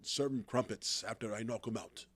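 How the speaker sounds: put-on English accent, taking its time; best English accent. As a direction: attempt a hammy English accent. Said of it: "That's my best English accent".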